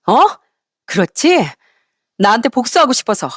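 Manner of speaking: acted indignant accusation; brazen defiance. Ex-wife accusing ex-husband of revenge, brazen and defiant. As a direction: throw accusing questions back, pitch jumping on the sharpest ones. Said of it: "끝까지 뻔뻔하고 당당하더라고요".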